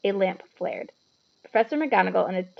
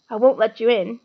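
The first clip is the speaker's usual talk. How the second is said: puffed; 7 dB louder than usual. A narrator's reading. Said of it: "he puffed".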